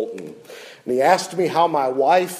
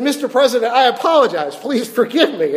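higher, louder, urgent apology; earnest plea; 9 semitones higher, 5 dB louder, faster than usual. Retold or imitated. Preacher retelling Tim pleading with the president, louder and higher. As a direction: beg for forgiveness with rising emotion.

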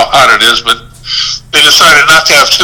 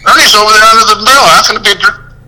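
high, fast, mock outraged protest; pleading disbelief at the ref; replaying the protest, pitched up and rushed; indignant protest; 7 semitones higher than usual. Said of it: "I go".

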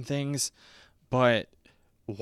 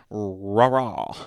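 louder, hammed-up little cheer; mock cheer; 7 dB louder than usual. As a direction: chirp it like a pretend cheerleader. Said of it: "Yes, I'm the cheerleader".

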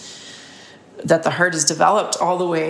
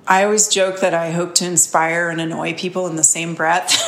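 laughing; faster than usual. Real, not acted. Laughs at own joke.

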